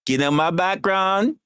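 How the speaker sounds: slow, high, lilting "You know my background" with a West Indian hint; hint of West Indian accent. Shown as a demonstration. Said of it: "Not gonna pull out the accents".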